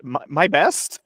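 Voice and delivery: lightly acted choked-out words; a hint of a voice cracking; slightly cracked voice. Player voices Warren choking out an answer, slightly cracked voice. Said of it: "with a slightly cracked voice".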